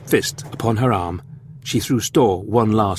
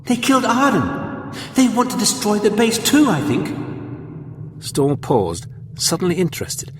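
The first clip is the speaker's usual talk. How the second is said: put-on higher girl's voice, anxious and earnest; frightened young girl; 9 semitones higher than usual. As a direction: voice the scared young companion. Voices Victoria.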